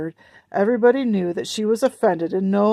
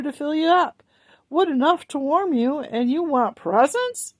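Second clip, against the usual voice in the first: higher, sharp scolding voice; scolding mother; 7 semitones higher than usual. A narrator's reading. Mother scolding her children, sharp and high. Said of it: "snapped Missus Griswold".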